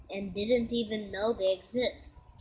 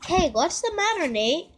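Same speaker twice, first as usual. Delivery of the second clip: higher, brighter ghost butler voice; a fussy little helper asking kindly; Whisper voice; 6 semitones higher, 4 dB louder than usual. Acted. Whisper asks Nate what's wrong, in a high helper voice.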